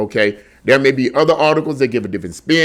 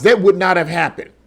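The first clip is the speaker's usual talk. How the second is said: ordinary delivery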